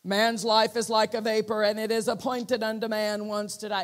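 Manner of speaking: loud, solemn proclamation; dramatic voice. Retold or imitated. The dramatic voice he heard, loud and solemn. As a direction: announce it with weight. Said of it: "how dramatic the voice was".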